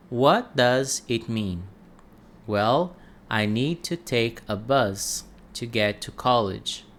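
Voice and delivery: clear, careful reading for learners to repeat; slow careful reading. Shown as a demonstration. Teacher reads the text for shadowing practice, clear and careful. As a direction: read it clearly so students can copy it. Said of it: "dessa vez um pouco mais lenta".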